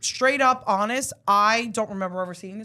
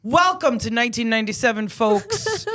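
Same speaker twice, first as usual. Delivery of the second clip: trailer voice; slower than usual. Acted. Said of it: "host movie-trailer intro".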